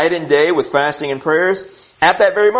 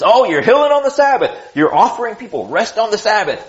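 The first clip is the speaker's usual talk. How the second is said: a hint of nitpicking critics, pitched higher; lightly mock the fault-finding leaders, higher; mock religious leaders; 5 semitones higher than usual. Preacher mimics religious leaders criticizing Jesus, mock complaint. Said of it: "That's what the religious leaders do to Jesus".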